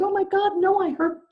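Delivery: high-pitched insistence; insist, voice pitched well up; retold scream. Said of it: "I screamed".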